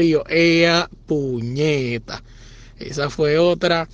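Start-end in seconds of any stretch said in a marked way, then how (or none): 0.3-2.2 deflated curse. Retold or imitated. Resigned curse after the reveal.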